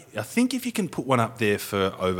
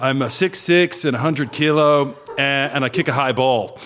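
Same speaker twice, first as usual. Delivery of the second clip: put-on American accent; 4 semitones higher, 3 dB louder than usual. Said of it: "I put on a half American accent".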